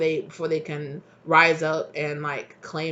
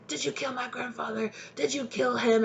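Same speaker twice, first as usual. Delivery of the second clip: accusing Sophie; 7 semitones higher than usual. Retold or imitated. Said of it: "she's like".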